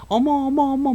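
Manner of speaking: high-pitched cooing girlfriend imitation; gushing sweetheart. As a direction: squeal coyly at your darling. (높은 톤으로 호들갑 떠는 애인 흉내)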